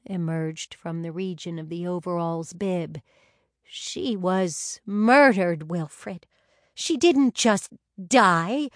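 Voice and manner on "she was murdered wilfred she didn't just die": wail. Acted. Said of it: "a muffled voice, or more like a wail".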